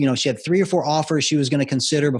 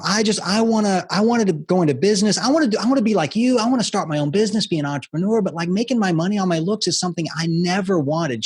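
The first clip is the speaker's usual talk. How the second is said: imitating a girl's tearful plea, higher; a mild retold sob as she begs; tearful pleading; 5 semitones higher than usual. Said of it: "She's just bawling her eyes out".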